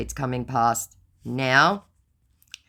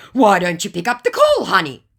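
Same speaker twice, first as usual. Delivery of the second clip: high, louder wheedling; mock sweet-talk; scammer voice; 7 semitones higher, 9 dB louder than usual. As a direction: coax like the scammer. Voicing scammer.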